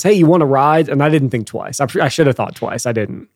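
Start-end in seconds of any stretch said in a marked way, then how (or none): 0.0-0.9 a hint of the South Georgia accent. A trucker offering a stranger a ride, a light South Georgia accent. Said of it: "in, in the accent says".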